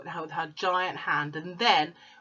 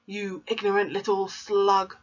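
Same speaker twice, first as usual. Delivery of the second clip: mild bellow; 3 semitones higher, 4 dB louder than usual. Acted. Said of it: "the Trunchbull bellowed".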